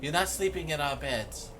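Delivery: put-on high, firm girl's voice; wood elf girl. Wood elf girl refuses her bed, high and firm. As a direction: lay down the rule in a high voice. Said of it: "She goes".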